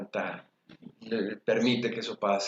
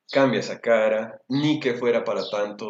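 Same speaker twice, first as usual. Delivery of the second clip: put-on louder scolding, dismissing the child's feelings; scolding parent; 7 dB louder than usual. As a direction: snap at the child to stop sulking.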